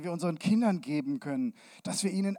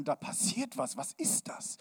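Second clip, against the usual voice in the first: whisper; 6 semitones higher, 6 dB quieter than usual. Acted. Excited crowd wondering.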